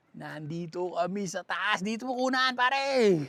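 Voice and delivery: stretched call rising to a shout; high, loud holler to a buddy; triumphant calling out. Real, not acted. Calling out from the top.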